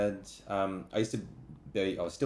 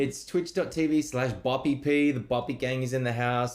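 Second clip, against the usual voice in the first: higher, lively plug to the chat; streamer shout-out; 6 semitones higher than usual. Real, not acted. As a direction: hype up the stream audience. Calls out to his stream audience.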